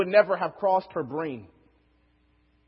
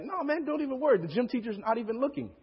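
mock-reassuring, higher-pitched kid; coaxing friend; 6 semitones higher than usual. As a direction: lightly brush off the worry in a higher voice. Friend coaxing him into a dare.

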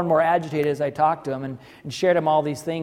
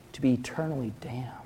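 whisper; 3 semitones lower, 7 dB quieter than usual. Acted. Horror at father's belief.

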